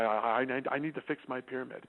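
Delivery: a humbled son confessing to his dad; sheepish quiet. Retold or imitated. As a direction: mumble it like a chastened teen. Humbled son after embarrassment.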